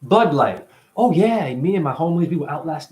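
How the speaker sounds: hammed-up party bro voice; mock party bro. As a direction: cheer it like a partying homie. Acting out coded party talk.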